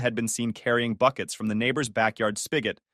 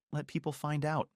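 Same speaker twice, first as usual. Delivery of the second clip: much softer, hushed dismay; whispering; 3 semitones higher, 10 dB quieter than usual. A narrator's reading. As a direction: say it under your breath. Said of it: "she whispered".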